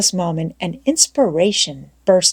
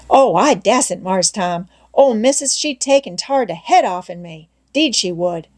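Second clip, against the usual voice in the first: Jim in dialect. Acted. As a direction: plead you can't, Missus said no. Jim fearful of Missus.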